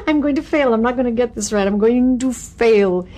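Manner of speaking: half-laughing re-enactment of backstage fear; mock panicky dread. Recalling her backstage nerves, a mock panicked mutter. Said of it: "clench my hands and say".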